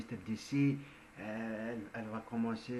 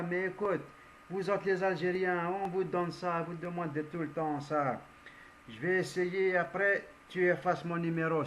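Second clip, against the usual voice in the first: excited, higher pleading friend; friend's voice; 5 semitones higher than usual. Retold or imitated. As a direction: play the exasperated buddy on the phone. Algerian friend voiced in a story.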